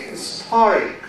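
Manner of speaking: "historic" stressed on the middle, his-TOR-ic; weight on TOR in "historic", falling after; stress on second syllable. Shown as a demonstration. Teacher shows how she says it, "historic" stressed his-TOR-ic. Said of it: "On the second".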